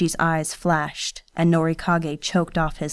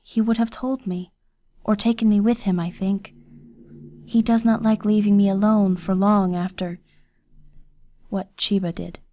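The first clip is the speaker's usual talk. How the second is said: put-on servant girl worried about her missing guardian; Kiyose, worried girl; 3 semitones higher than usual.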